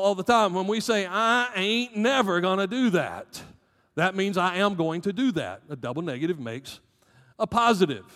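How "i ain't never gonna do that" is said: Southern drawl. Retold or imitated. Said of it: "we get it wrong in the South".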